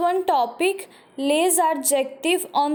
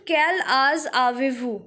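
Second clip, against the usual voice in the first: careful reading. Shown as a demonstration. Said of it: "Third question".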